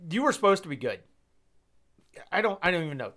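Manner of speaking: whispered, letdown, to the team; disappointed whisper. Real, not acted. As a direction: breathe it out in dismay. Disappointed fan addressing Illinois.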